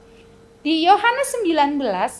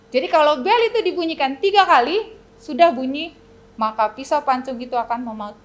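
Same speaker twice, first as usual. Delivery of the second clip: normal talking voice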